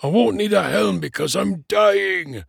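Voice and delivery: high, exasperated dwarf outburst; snarling. A narrator's reading. Dying dwarf struggling to sit up, exasperated snarl. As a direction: insist angrily, pitched high. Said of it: "Flint snarled".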